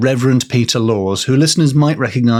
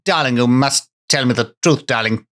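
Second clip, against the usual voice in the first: put-on plummy old-film romantic voice; mock posh wartime lover; hammed-up posh darling pleading; faster than usual. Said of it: "It's much less".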